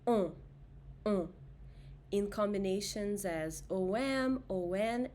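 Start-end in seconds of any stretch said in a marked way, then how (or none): 0.1-1.3 On said with nasal o. Shown as a demonstration. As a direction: hum On through the nose. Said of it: "nasal vowel sound is with the letter O".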